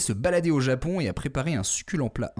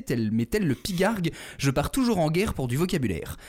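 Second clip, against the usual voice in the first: announcer intro. Acted. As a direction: introduce him like a showman. Alliterative host introduction.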